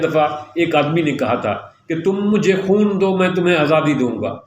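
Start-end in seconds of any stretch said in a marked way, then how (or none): 2.0-4.4 mildly impassioned, quoting a leader; rally people to give everything, with conviction; passionate rallying call. Retold or imitated. Speaker imitating a man calling people to sacrifice for freedom, passionate. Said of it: "اس نے اتنے پرجوش انداز میں یہ بات کہی".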